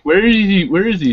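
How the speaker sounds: high, loud mock calling; mock worried calling. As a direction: call out as if searching. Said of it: "be like".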